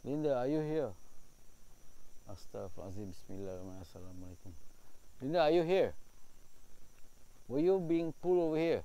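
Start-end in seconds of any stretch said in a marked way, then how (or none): 2.3-4.5 soft, low prayer under the breath; hushed Arabic prayer; murmured prayer. Real, not acted. Muttered protective prayer. 5.2-8.8 loud high call into the dark; calling loudly for a spirit. Real, not acted. Calling out to ghost.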